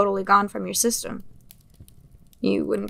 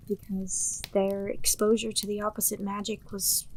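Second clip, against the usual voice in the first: hushed unvoiced explanation; whispered; 7 dB quieter than usual. Delilah hushing Atlas as she explains the magic, whispered. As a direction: breathe the words like a secret.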